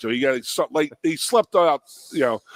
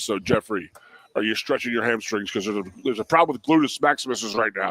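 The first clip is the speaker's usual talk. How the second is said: imitating coach Dick; 3 semitones lower than usual. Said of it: "Dick Anderson had a voice like this".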